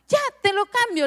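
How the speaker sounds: high, bright eager-to-please voice; imitating herself. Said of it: "le decía yo".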